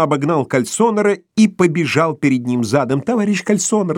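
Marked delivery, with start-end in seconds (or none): 3.0-4.0 broken voice. A narrator's reading. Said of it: "прерывающимся голосом".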